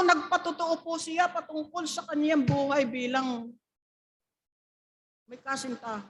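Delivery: ordinary delivery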